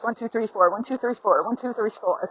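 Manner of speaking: even four-beat count. Shown as a demonstration. Trainer counting the gait's even four beats. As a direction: count out one two three four steadily. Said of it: "That's four beats".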